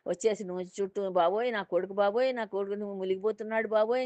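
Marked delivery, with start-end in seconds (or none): 1.1-4.0 lightly voiced wail, a bit higher; mock lament for the drowning son. Father circling the well mourning his son, mild mock wail. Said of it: "ఏడుస్తున్నాడు".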